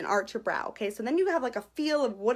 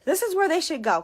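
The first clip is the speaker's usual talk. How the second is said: retold self-talk; 6 semitones higher, 6 dB louder than usual. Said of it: "and I say".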